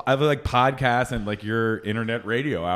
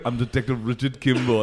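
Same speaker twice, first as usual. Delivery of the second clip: lightly put-on Austrian accent; Arnold Schwarzenegger. Soundboard prankster introducing himself, light Austrian accent. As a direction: imitate an Austrian action star's canned line. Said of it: "an Arnold Schwarzenegger soundboard".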